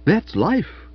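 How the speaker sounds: mock-grave, high aunt; solemn hearty aunt, tongue in cheek. A narrator's reading. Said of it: "said Aunt Dahlia gravely".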